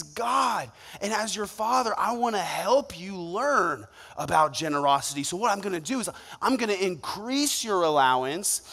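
a father proud of his daughter; tender father. Retold or imitated. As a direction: praise her gently like a loving father. Loving father voiced to daughter.

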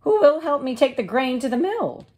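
high, bright hen voice; little red hen. Acted. The hen asking neighbours about seeds, in a high voice. Hen's voice.

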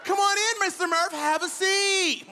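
high, slow hostess-like teacher voice; teacher inviting the father in; welcoming teacher. Retold or imitated. Hammed-up sweet teacher welcome. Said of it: "She looked at me like".

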